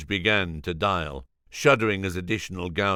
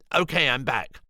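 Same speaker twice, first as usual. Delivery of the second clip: Julian's voice; 4 semitones higher than usual. Acted. Julian back on phone.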